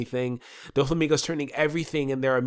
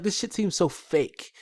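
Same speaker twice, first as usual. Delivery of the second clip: slow skeptical; 6 semitones higher, slower than usual. Retold or imitated. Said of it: "I was like".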